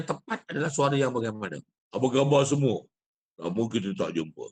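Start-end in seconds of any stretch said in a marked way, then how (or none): 1.9-4.5 louder, pushed greeting on khabar; forced big voice. Shown as a demonstration. Teacher showing the wrong, pushed recitation voice to students. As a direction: project khabar hard as if to a crowd. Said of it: "Ataupun suara yang kedua".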